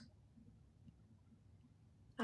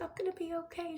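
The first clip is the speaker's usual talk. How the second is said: whisper; 5 semitones higher, 6 dB quieter, faster than usual. Retold or imitated. Retelling a tender farewell call.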